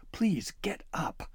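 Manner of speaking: slow, high begging; an elf slowly begging the trapped boy to rise; pleading. Acted. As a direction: draw out the plea, urging him up. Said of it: "Flibberty pleaded".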